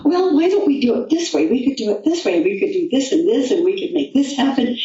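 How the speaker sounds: imitating her own excited younger self; excited suggestion. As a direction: rattle off ideas with eager enthusiasm. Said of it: "I was all excited about it".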